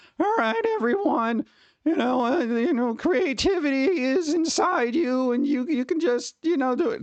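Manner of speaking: put-on high, crackly voice breaking like a teen's. Impersonating a weird crackly kid puberty guy addressing everyone, crackly puberty-breaking kid voice. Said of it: "the weird crackly kid puberty guy who's like".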